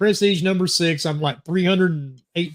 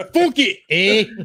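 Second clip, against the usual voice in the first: badly done, fake, put-on Irish accent; 3 semitones higher, 3 dB louder than usual. Doing the accent his wife gets upset about, in a bad Irish accent. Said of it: "That's that Carolina Irish".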